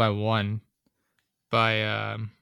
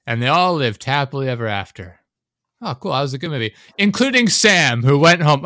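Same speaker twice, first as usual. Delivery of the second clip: mocking storybook narrator; 3 semitones higher, 3 dB louder than usual. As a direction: parody an ending that keeps going. Mocks a movie's endless epilogue.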